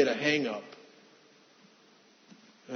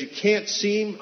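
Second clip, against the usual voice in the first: higher, louder, insistent no; raised refusal; 8 semitones higher, 6 dB louder than usual. Retold or imitated. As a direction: push "can't" up hard, this time insisting. Mother refuses him again.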